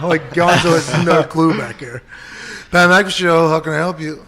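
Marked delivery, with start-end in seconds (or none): 2.7-4.2 polite phone answer. Retold or imitated. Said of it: "Gonzo's answering it".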